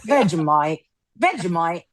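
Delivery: one-word go at Australian accent; Australian accent attempt. Shown as a demonstration. Taking a turn among co-hosts, attempted Australian accent. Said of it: "do an Australian accent".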